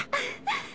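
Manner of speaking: short relieved giggle; light laugh. Acted. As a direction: let a little laugh slip out. Tension eases, she laughs.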